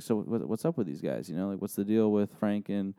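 imitating a discreet, softened question; slightly hushed, casual retold aside; under his breath. Alex quietly asking about opponents he is facing, under his breath. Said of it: "not whispering, but under his breath".

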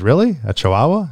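mildly incredulous acted question. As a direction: query it as if you doubt the claim. Joke guard doubts the dog.

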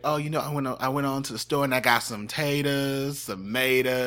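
light Southern country twang; country accent. Retold or imitated. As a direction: imitate Southern relatives with a folksy country accent. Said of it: "all my relatives sounded like that".

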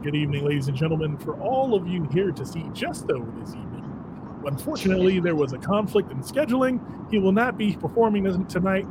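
formal stage announcer read. Shown as a demonstration. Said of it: "I get to do my announcer voice".

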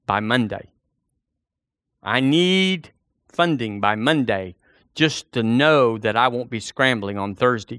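a hint of someone dictating terms to God; mock demanding prayer.

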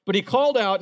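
loud prophet's call; booming prophet's call; proclaimed again. Shown as a demonstration. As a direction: call it out to the city. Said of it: "listen to this".

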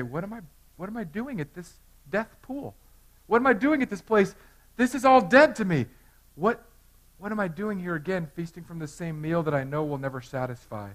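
mild pleading self-questioning; voicing a repentant heart. Pastor voicing a repentant sinner, rising and earnest. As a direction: ask yourself, a touch stunned and earnest. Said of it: "It's to say".

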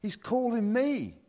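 thrilled the son is calling; super excited. Retold or imitated. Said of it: "and I get super excited".

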